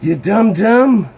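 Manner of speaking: mock scolding. Real, not acted. Scolding himself over a mistake.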